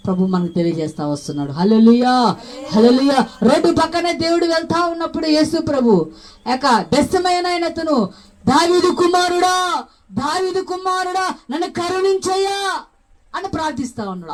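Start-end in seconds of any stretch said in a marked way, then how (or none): 1.5-3.3 loud hallelujah call. Real, not acted. Preacher rousing the congregation with a loud call. 8.5-9.8 high, slow pleading call; crying out for help. Retold or imitated. Blind man crying out to Jesus for mercy. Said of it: "అరుస్తా ఉన్నాడు". 10.1-12.8 higher voiced plea for mercy; crying out for mercy. Blind man pleading with Jesus, crying out. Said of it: "అరుస్తా ఉన్నాడు".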